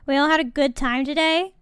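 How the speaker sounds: rally the viewers cheerfully; upbeat host question. Real, not acted.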